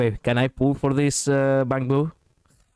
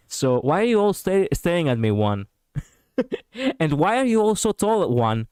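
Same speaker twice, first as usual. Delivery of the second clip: mimicking game character; 5 semitones higher than usual. Mimics game character's lines, swapping Enna.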